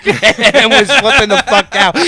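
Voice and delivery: cracking up while describing Chips losing it; laughing. Real, not acted. Laughing while telling the crew about Chips.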